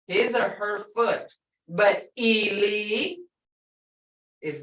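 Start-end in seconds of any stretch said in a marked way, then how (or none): 1.7-3.2 Ili said slowly and drawn out; long ili. Shown as a demonstration. Teacher contrasting ili, dead. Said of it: "is short, short and blunt".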